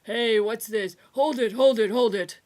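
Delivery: put-on an old voice halting the tools; old man calling halt. A narrator's reading. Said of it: "gravelly with age".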